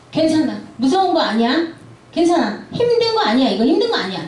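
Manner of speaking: brushing the child's fear aside, lightly voiced; a hint of a parent saying it's nothing; dismissive parent. Parent waving off a scared child, mildly dismissive. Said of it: "이렇게 부정해버리는 거예요".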